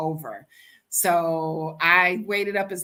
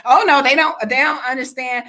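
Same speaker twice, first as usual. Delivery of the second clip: put-on girl's alarmed protest; 5 semitones higher, 9 dB louder, faster than usual. Girl protests her family's danger.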